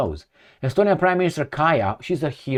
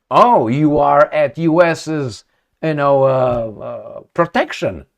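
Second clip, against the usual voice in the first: slow mockery; slower than usual. Real, not acted. Mocking the minister's confidence.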